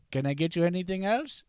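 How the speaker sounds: put-on light Indian accent, question lilt; a hint of an Indian shop clerk. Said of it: "the Indian clerk goes".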